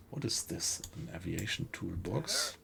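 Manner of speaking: whispered to himself, curious; whispered wonder. Real, not acted. Streamer looting alone whispers curious question to himself. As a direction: hush it as you spot the odd item. Finds an item while looting.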